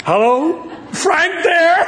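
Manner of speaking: very high questioning lilt; mock-innocent phone caller. Dad needles the stranger by phone, high mock-innocent voice. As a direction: pipe up innocently, rising at the end.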